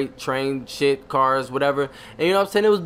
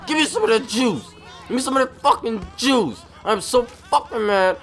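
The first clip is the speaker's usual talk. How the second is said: mock yelling; 5 semitones higher than usual. Player yelling in character.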